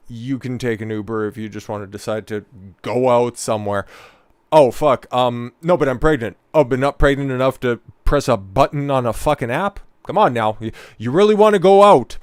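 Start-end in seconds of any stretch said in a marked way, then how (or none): 4.5-12.2 loud, sneering mock comeback, rising to a higher peak; sarcastic retort. Streamer arguing back at the wife, sarcastic and loud. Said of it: "mock argument with wife".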